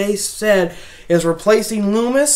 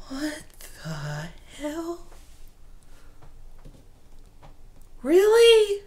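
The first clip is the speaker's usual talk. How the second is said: mock disbelief; 7 semitones higher, 7 dB quieter, much slower than usual. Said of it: "I was sitting here ... like".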